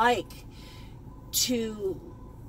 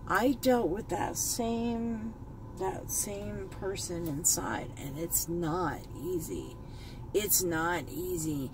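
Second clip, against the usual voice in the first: slow, quieter, fighting back tears; choked up; 3 semitones lower, 5 dB quieter than usual. Real, not acted. Vlogger admitting her own struggle to viewers, choked up. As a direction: hold the words in a tightening throat. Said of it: "I'm getting a little choked up".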